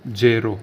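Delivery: ज़ेरो with a z and a tapped r, dzeh-ro; ज़ेरो, Italian zero, clearly; Italian pronunciation. Shown as a demonstration. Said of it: "इसको pronounce करते हैं ज़ेरो".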